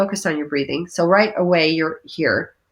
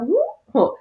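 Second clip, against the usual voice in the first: playful whoop; 12 semitones higher than usual. Pretend. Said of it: "She's like".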